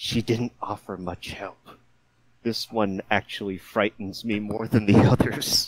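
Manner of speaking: hushed, whispered voice. Player's character speaking in Draconic after the grandmother leaves, whispering. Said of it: "I just whisper in Draconic".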